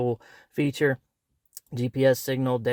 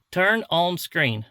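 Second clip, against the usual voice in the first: louder, slow, over-clear command; louder repeated command; 4 semitones higher, 4 dB louder, slower than usual. Shown as a demonstration. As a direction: repeat it louder so the camera catches it. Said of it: "guess it can't understand my, my, uh, country accent".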